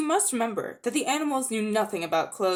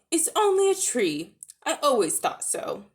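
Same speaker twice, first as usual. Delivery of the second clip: a hint of a know-it-all warthog, higher; pleased with himself, pitched up; warthog, smug; 6 semitones higher than usual. Warthog voiced.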